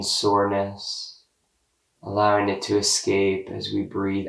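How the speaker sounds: slow, calm body-scan guidance with long pauses; guided meditation. Real, not acted. Guide leading listeners through a body scan, calm meditation voice.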